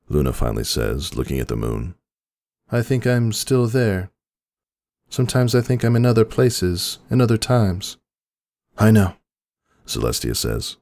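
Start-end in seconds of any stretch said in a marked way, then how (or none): 2.7-8.0 much higher, concerned younger sister; a high, fretful princess voice; Luna's worried voice. A narrator's reading. Luna voiced in story. 8.8-9.2 higher, gentle princess voice; Celestia's voice. A narrator's reading.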